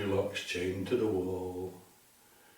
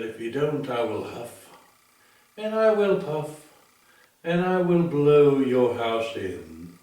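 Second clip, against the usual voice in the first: angry wolf roaring at the pigs' door; roaring wolf threat; 3 semitones higher, 6 dB louder than usual. Acted. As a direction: roar it at the house.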